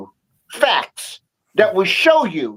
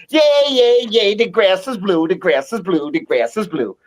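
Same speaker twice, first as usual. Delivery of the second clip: happy donkey; 3 semitones lower than usual. Retold or imitated. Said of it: "the donkey is all happy".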